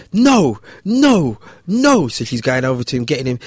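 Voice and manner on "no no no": put-on high, loud child's wail of no; kid wailing no. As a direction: whine it like a crying four-year-old. Kid refusing haircut, voiced.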